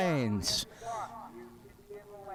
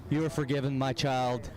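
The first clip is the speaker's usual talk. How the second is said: lightly voiced priest, lower and solemn; a hint of a blessing priest, pitched lower; mock priest; 5 semitones lower than usual. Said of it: "and he will say".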